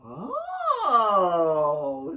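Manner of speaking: long, loud, falling "oh"; dawning realisation. A narrator's reading. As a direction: let a big realisation slide downward. Everybody suddenly realises.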